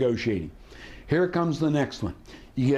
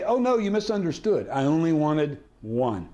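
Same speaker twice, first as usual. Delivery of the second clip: feigned misunderstanding. Shown as a demonstration. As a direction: act as if they got your order wrong. Feigned misunderstanding as negotiating flinch.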